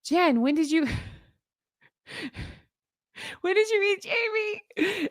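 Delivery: lightly hammed-up starstruck viewer; mock fan comment. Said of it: "five to seven comments saying".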